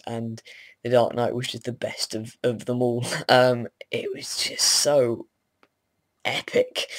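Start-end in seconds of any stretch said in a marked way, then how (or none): 3.9-6.9 gushing. Real, not acted. Gushing about the film.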